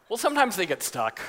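lightly acted offhand explanation; matter-of-fact, as if no concern; casual lifeguard. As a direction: imitate an unbothered lifeguard. Lifeguard shrugs off stuck child.

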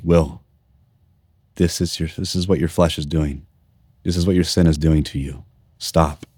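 low, soft, quiet voice of God; a hushed inner voice, calm and firm. Retold or imitated. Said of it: "I remember him, like, saying".

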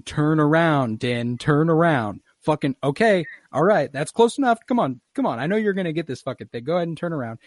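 will him to turn around; urging the screen. Retold or imitated.

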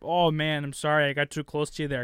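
lightly put-on Canadian accent, apologetic; a hint of an overly polite Canadian. Joking to cohosts, mild Canadian accent, apologetic. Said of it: "You sound like a Canadian".

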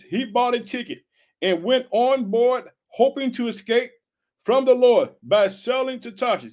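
measured, emphatic Bible reading; scripture reading. Acted. Preacher reading Jonah's flight to the congregation, declaimed scripture. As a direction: read the verse out deliberately.

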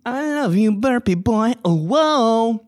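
words pushed out through a burp; talking while burping. Real, not acted. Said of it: "About to burp".

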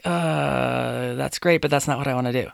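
imitating an unimpressed, hesitant reply; reluctant. Voicing a reluctant response to answers.

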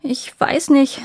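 put-on frightened whisper from a boy; dismayed. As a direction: whisper it, caught off guard. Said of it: "sagte Gulven bestürzt".

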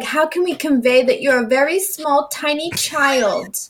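put-on sarcastic writer voice, slowing on tiny child; mock writer. Mocking the book's writers to co-hosts, sarcastic writer voice. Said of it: "they're like".

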